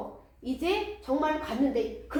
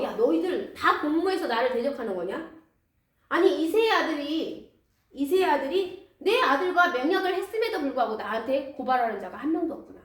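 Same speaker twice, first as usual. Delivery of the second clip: raised, accusing lament; bitter complaint; 2 semitones higher, 3 dB louder than usual. Acted. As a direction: scold them for betraying him. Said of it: "막 신세한탄을 하면서".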